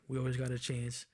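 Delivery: murmured reassurance to himself; soft echo. Shown as a demonstration. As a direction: say it again to yourself, softly. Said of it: "We always got a chance with Russell".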